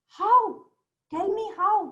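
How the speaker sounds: high, loud cry of disbelief; surprised merchant. A narrator's reading. Merchant asks the jinn how he killed his son, surprised. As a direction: demand it high and insistent. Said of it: "The merchant was more surprised".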